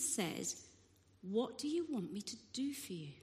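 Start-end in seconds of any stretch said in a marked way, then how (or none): 1.2-3.1 softly voiced, hushed question; gentle question. Jesus to the blind beggar, asking gently. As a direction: ask it quietly, with care.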